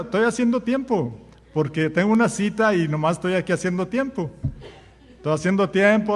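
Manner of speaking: laughing excuse. Retold or imitated. Idle person explains, laughing.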